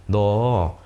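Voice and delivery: low-pitched, gentle question; kindly asking. Shown as a demonstration. Teacher asking a pupil alone what happened, kindly. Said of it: "다정하게 질문을 해주시면".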